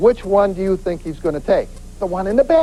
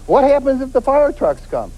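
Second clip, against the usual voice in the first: higher-pitched questioning voice, lightly imitated; imitated woman asking; 5 semitones higher than usual. Woman asking the instructor about yelling fire, lightly imitated questioning. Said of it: "one woman asked me".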